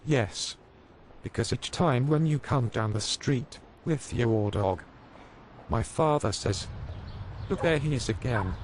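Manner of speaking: put-on high child voice; little boy. A narrator's reading. Max explaining to the policemen, high and innocent. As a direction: tell it like an innocent kid. Boy quoting his father.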